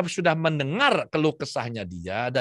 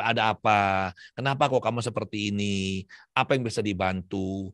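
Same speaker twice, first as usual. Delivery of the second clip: gentle concerned asking; 4 semitones lower than usual. Shown as a demonstration. To a sulking inner part, gentle and concerned.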